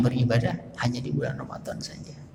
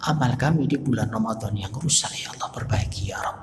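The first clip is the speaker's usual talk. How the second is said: tearful prayer. Shown as a demonstration. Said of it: "Tapi terus menangis".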